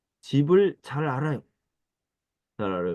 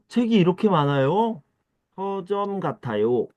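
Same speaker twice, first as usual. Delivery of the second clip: amazed; 6 semitones higher than usual. Acted. Amazed at many books.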